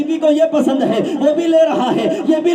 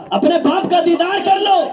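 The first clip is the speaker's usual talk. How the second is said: raised plea; 5 semitones higher than usual. Acted. Brother begging sister, repeated plea.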